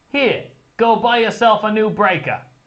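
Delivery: very high, put-on New Jersey Italian mobster accent. Reading out a ten-dollar message, in an Italian mobster voice. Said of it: "in his Italian mobster voice".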